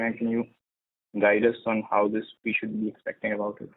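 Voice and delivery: muffled voice, as through a hand; talking through a covered mouth. Real, not acted. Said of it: "your voice is a bit, uh, muffled".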